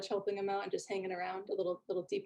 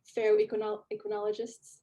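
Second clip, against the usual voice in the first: nerdy dwarf; 4 semitones higher, 3 dB louder than usual. Acted. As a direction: greet them like a puffed-up hobbyist. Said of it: "So he says".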